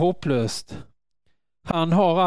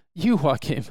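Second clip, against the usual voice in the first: calling out; slower than usual. Acted. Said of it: "Jesus behöver ropa".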